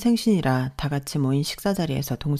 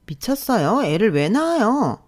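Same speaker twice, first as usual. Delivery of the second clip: higher, sharp and incredulous; sharp retort; 6 semitones higher, 5 dB louder, slower than usual. Acted. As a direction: stretch out a cutting, scornful comeback. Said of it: "아주 날카로운 목소리로 대답했어요". (날카롭게 쏘아붙이는 목소리)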